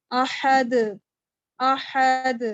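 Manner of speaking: احد with the final د bounced hard and loud; strong qalqalah. Shown as a demonstration. Teacher demonstrating to students, loud bouncing qalqalah. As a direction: end احد on a strong echoing د. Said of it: "strong قلقلہ کرتے ہیں".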